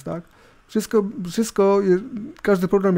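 usual speaking voice

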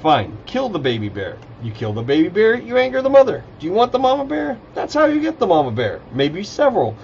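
angry. A narrator's reading. Druid warning the warrior about the mother bear, angrily. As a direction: lecture him in rising exasperation. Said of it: "Rainier spoke angrily".

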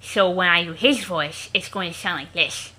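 every S slurred to SH, "thish"; slushy lisp. Shown as a demonstration. Previewing a later character's voice, slushy SH lisp. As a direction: say "so" and "this" with a wet SH for each S. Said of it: "I'm reserving that lisp for a character".

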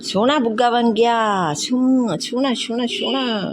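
slow, high, doting pet talk; doting praise. Real, not acted. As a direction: coo over the clean dog. (ਲਾਡ ਨਾਲ ਹੌਲੀ ਉੱਚੀ ਤਾਰੀਫ਼)

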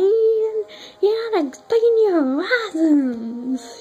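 a laid-back hippie buddy, rising on "You"; lightly voiced mellow hippie friend; easygoing surfer-hippie drawl, not far from her own voice. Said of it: "He sounds like a freaking hippie".

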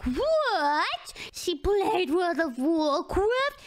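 exaggerated, drawn-out disbelief; mock surprise. Mimicking people shocked she played Warcraft, mock surprise. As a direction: stretch the words slowly in imitation shock. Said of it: "like, surprised".

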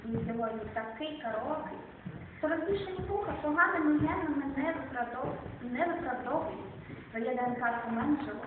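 measured, unhurried poem recital; poetry reading. Acted. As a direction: read it like a poet at an open mic. Reads own poem aloud.

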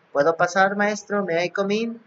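a hint of a polite pupil; imitated student asking. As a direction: mimic a pupil asking permission. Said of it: "Cuando ustedes me digan".

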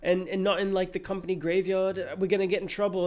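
high put-on daughter voice; voicing Anna. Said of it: "and she's like".

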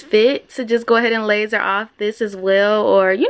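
lip held back by finger; talking with finger on gums; finger in mouth. Real, not acted. Seen 2: Fingertip held in mouth, lifting lip to show gums while talking.

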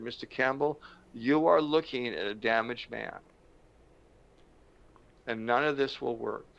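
understated retold sorrow; grave and measured, a touch of hurt; serious, tearful. Damaged man confessing to his counselor, gravely subdued. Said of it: "very seriously with little tears in eyes".

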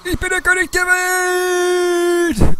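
hoch und laut jubelnd ausrufen; triumphal gerufen. Pretend. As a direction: wie am Schiffsbug jubeln. Titanic-Zitat auf dem Dach. (hoher triumphaler Ruf)

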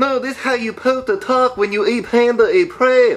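crudely faked Chinese accent; insistent, in a fake Chinese accent; mock Chinese accent. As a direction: keep up a silly Chinese accent. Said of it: "stop talking like that".

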